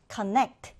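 connect spoken clearly as a model; model reading. Shown as a demonstration. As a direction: read connect out for the class. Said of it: "함께 읽어볼게요".

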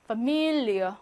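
파밀리어 ending in a weak -ier sound; careful German Familie; pronunciation demo. Shown as a demonstration. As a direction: stress on 밀, end 파밀리어 with a reduced ie. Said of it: "이어 이렇게 발음해요".

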